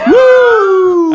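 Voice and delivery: high whooping yell; hype shout. Pretend. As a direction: whoop like a radio crowd. Morning zoo hype cheer.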